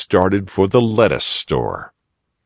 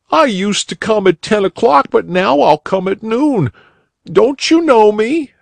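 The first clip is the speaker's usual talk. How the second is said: put-on tearful boy; 4 dB louder than usual. A narrator's reading. Crying boy answering the rabbit, high young voice. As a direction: play the upset schoolboy, pitched up. Boy recites his rhyme.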